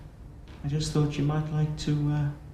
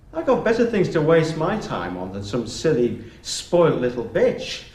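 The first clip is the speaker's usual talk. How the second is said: angry; 3 semitones higher, 4 dB louder than usual. Acted. Teacher losing temper with pupil.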